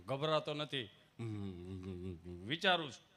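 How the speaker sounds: a hint of a low, soft, timid villager. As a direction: mumble it shyly. Gabho replying softly. (શરમાળ ગામઠી અવાજ)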